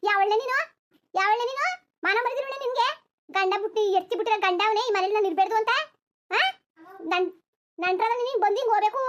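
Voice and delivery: a mild mock telling-off; angry confrontation. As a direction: demand who she is, indignant. Woman confronts an intruder angrily.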